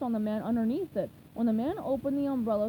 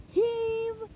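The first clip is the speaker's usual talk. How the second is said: shouted; 11 semitones higher than usual. A narrator's reading. Mister Krabs calls the push, shouted heave. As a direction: call the heave like a work chant. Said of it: "shouted Mister Krabs".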